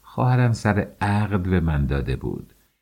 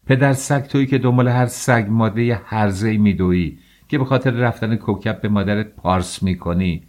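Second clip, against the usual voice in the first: shouting; 3 semitones higher than usual. Acted. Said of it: "فریاد زدم".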